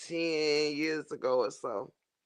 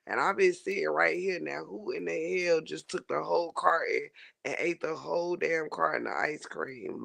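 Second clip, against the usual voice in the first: mock angry rant; 2 semitones higher than usual. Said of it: "I'm ready to cuss everybody out".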